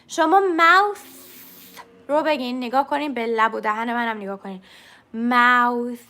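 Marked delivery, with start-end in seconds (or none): 0.6-1.0 ماوث, tongue between teeth, no buzz on TH; voiceless TH. Shown as a demonstration. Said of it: "به این میگه voiceless". 5.1-6.0 ماوث with a very long, airy final TH; ماوث, tongue between teeth, unbuzzed TH drawn out; voiceless TH. Shown as a demonstration. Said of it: "هیچ لرزشی نداره".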